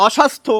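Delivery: অস্বাস্থ্য said oshastho, s not doubled; অস্বাস্থ্য without a double s. Shown as a demonstration. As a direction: say অস্বাস্থ্য as o-shastho, single s. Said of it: "অ লাগালে হয়".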